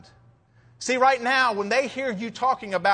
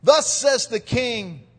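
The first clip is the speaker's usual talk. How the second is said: loud proclamation; 5 dB louder than usual. Retold or imitated. Rabshakeh calling to the people on the wall, loudly proclaiming. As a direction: herald crying out the king's words. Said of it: "says loudly for all the people to hear".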